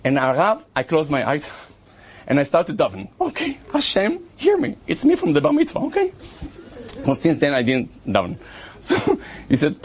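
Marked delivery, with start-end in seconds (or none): 3.2-6.1 high, earnest plea upward; pleading prayer. Retold or imitated. Storyteller reenacts his desperate prayer to Hashem, high pleading. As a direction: beg like a rusty prayer. Praying urgently mid chaos.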